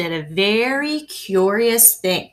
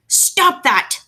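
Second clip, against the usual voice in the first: high, sharp command to stop; bellowing; 9 semitones higher than usual. A narrator's reading. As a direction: bark it at the boy. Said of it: "bellowed Mister Little".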